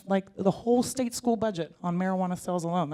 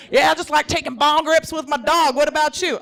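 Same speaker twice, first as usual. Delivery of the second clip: chipper date talk; 7 semitones higher, 7 dB louder than usual. Retold or imitated. Herself on Tinder date.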